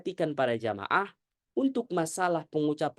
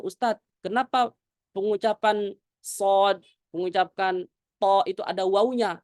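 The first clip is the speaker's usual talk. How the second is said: student's question; 2 semitones higher, 3 dB louder than usual. Retold or imitated. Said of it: "ada murid saya yang bertanya".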